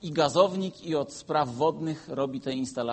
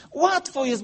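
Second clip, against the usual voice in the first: "Łatwo jest" high and loud; emphatic restatement; 11 semitones higher, 5 dB louder than usual. Shown as a demonstration. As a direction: proclaim "Łatwo jest" to the congregation.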